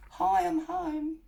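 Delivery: called-out greeting. Retold or imitated. Arriving home, calling out to the house, a drawn-out sing-song hello. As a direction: call hi, I'm home through the house, drawn out. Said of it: "'cause I always sort of say that".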